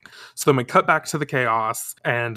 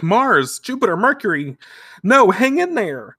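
rising urgent call to friends; 7 semitones higher, 4 dB louder than usual. Acted. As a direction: call out to them, pleading. Sailor Moon calling to friends.

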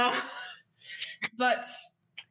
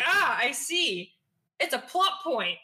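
slow knowing aside; 4 semitones higher, slower than usual. Retold or imitated. Players realising a plot point.

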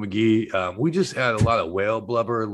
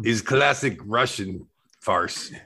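lightly put-on Croatian accent in broken English. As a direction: play a Croatian hitman, mildly accented. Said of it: "This is Croatian accent".

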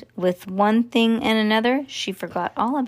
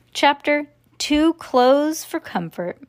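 slow, announced title; chapter title read; 6 semitones higher, 3 dB louder, slower than usual. A narrator's reading. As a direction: present the chapter heading grandly.

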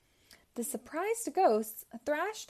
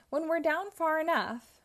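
a higher, louder gleeful villain line with a hint of cackle; lightly voiced scheming ghost; cackling; 7 semitones higher, 4 dB louder than usual. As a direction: relish the sneaky plan. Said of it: "cackled Pinky".

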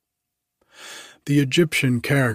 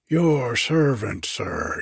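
fawning bow; 3 semitones higher, slower than usual. Acted. Grub man greeting Bartleby with a slow fawning bow.

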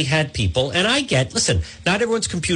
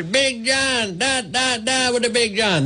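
much higher, goofy sing-song character voice; Big John voice; 11 semitones higher, slower than usual. Retold or imitated. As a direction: ham it up as the big jingle guy Big John. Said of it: "loves when I do Big John Bina".

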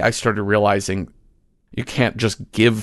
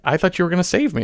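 higher, aggrieved complaint to God; whiny drowned man; 9 semitones higher, faster than usual. Retold or imitated. Drowned man complaining to God in the joke, mildly whiny. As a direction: play the let-down believer, pitched up.

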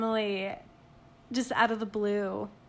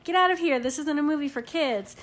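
stern mom; 4 semitones higher than usual. Retold or imitated. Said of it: "unless I'm like".

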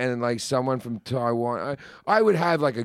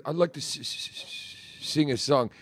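imitating a stutter; 6 dB quieter than usual. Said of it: "He goes".

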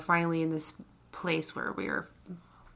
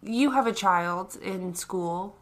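stoned; slower than usual. Real, not acted. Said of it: "I'm so stoned right now".

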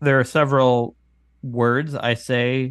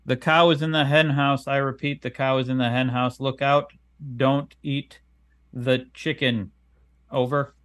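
radio-call dictation; 2 semitones higher than usual. Shown as a demonstration. Dictating a test message to phone.

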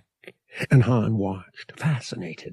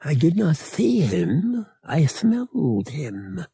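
matter-of-fact; 6 semitones higher than usual. A narrator's reading. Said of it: "Murg said matter-of-factly".

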